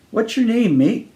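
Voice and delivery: friendly tone. Acted. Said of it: "in a friendly tone".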